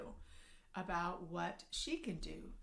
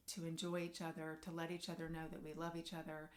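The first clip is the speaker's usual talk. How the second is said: tender apology; 2 semitones lower than usual. Shown as a demonstration. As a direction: lean in gently, own the hurt. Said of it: "that's when you can begin to say".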